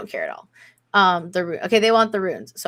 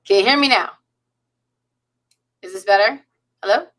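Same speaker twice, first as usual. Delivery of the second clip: glitching, garbled mic audio; distorted voice; 2 semitones higher, 7 dB louder than usual. Real, not acted. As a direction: voice breaking up over the call. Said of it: "Still, still distorted".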